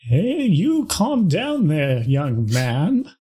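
slow, folksy Midwest scolding; Midwest accent. Acted. Old Reginald scolds the mayor, light Midwest accent. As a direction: settle the young man down in a light Midwest drawl.

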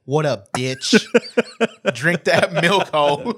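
loose, hammed-up Australian accent; rough comic Australian accent. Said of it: "this is my Australian accent".

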